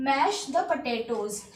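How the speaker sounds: slow, word by word; slow model phrase; slow teaching repeat. Shown as a demonstration. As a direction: repeat slowly for learners. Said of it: "उसे हम बोलते हैं mash the potatoes".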